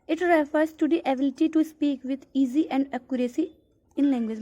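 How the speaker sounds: reads the English definition out slowly, word by word; slow reading aloud. Acted. Teacher reading a textbook definition to students, slow and deliberate. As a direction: dictate it slowly to the class.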